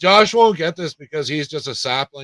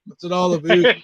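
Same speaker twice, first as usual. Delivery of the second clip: higher, louder put-on voice; mock voice; 5 semitones higher, 5 dB louder than usual. Friends joking on a call, goofy voice. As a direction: toss the phrase back in a silly voice.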